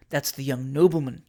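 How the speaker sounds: low reply with weight on "nobleman"; "nobleman" given great emphasis, correcting; stress on nobleman. A narrator's reading. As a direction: lean firmly on the word "nobleman". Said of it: "with a great stress on the last word".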